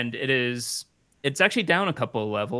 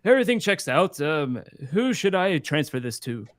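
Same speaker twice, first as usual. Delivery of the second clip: lightly voiced clerk, raised pitch; a chipper bureaucrat checking papers; official's voice; 3 semitones higher than usual. GM voices Peter Peterson.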